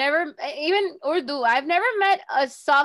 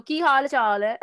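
Punjabi phrase through a laugh; 2 semitones higher, 4 dB louder than usual. Shown as a demonstration. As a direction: giggle while saying it in Punjabi. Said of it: "try to say it in Urdu and Punjabi".

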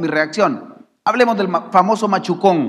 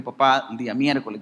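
lower, understated solemn address; 3 semitones lower than usual. Retold or imitated. Son telling father about Wednesday's broadcast, mildly solemn. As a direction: speak gravely to your father, pitched a little down. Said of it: "yo muy solemne".

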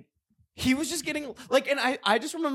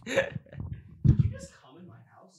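high screechy dinosaur voice. Pretend.

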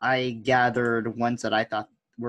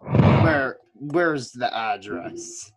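mock cool guy; 4 dB louder, much slower than usual. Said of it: "cool guy was like".

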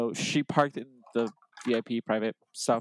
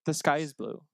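mock-casual small talk. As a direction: say it as idly as remarking on weather. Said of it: "Like, very casually, like".

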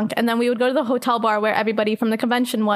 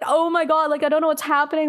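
higher-pitched mock panic; acted freaking out; 4 semitones higher, faster than usual. Teller voices own panicked thoughts, mildly frantic. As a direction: replay your inner freak-out. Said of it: "I'm, like, freaking out".

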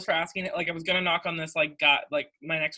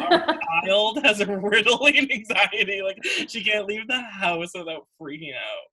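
mom gossiping to dad; 2 semitones higher than usual. Retold or imitated. Voicing mom talking to dad.

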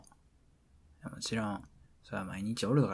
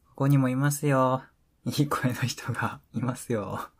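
louder, showing off a nice voice; smooth good voice; 3 semitones higher, 5 dB louder than usual. Acted. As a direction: sell yourself as the good-voice guy.

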